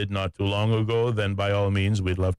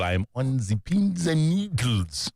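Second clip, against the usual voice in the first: lightly voiced Minion imitation, higher pitch; mimicked Minion; 4 semitones higher than usual. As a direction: playfully echo a Minion impression. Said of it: "Minions impersonation".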